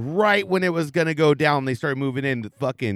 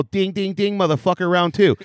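higher, hammed-up fight taunt; corny round-two call to the attacker; cheesy movie line; 6 semitones higher, 4 dB louder than usual. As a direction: ring the bell like a corny action hero. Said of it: "I literally say this, too, so cheesy".

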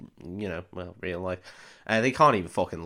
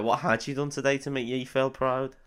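softer mock Irish echo; mimicked Irish accent; 5 dB quieter than usual. Parroting the Irish assembly line.

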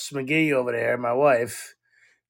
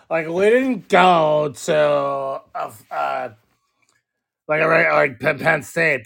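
drunk wife impression; slower than usual. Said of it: "She's like".

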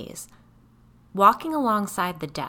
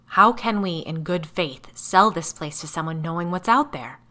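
frustrated outburst; 8 dB louder than usual. Acted. Frank arguing with the narrator, loud and exasperated. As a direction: burst out in frustration.

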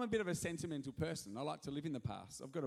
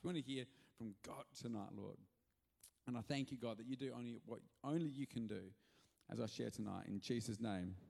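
prayer; 2 semitones lower than usual. Acted. Pastor prays over the church before the message. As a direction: pray it gently and earnestly.

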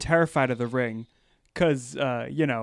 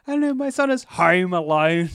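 mock Australian accent; 4 semitones higher than usual. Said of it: "No, that's Australian".

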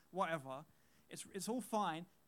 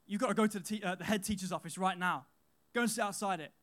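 louder, stern imitated teacher; stern teacher order; 6 dB louder than usual. Teacher sending boys to the office, stern and loud. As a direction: order them off to the head's office. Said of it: "the teacher comes round and goes".

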